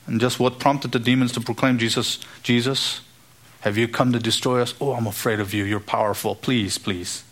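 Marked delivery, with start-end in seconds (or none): 1.8-7.2 mock fearful plea. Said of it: "That's fear".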